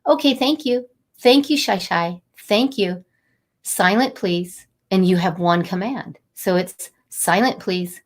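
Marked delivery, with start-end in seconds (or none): 0.0-4.7 calm. Shown as a demonstration. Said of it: "And it's that low".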